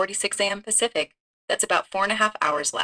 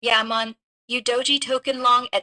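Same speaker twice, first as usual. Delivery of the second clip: put-on Chinese accent muddled with Jamaican; confused Jamaican-Chinese accent mash-up; mixed Chinese-Jamaican accent; 2 semitones higher than usual. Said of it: "Don't do the Jamaican accent at the same time".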